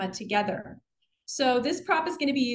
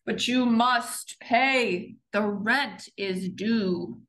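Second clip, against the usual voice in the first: sneering panto villain; much slower than usual. Acted. Villain presses Savannah.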